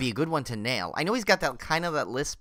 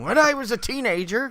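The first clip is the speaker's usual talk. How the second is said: much higher, badly faked impersonation; hammed-up, pitched-up mimicry; horrible Adam Arkin; 9 semitones higher, 3 dB louder than usual. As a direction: do a hopeless actor impression. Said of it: "that was a horrible impersonation".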